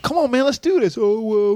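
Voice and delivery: high-pitched mock slacker artist; mocking artist impression. Producer mimicking stupid artists he won't work with, high mocking voice.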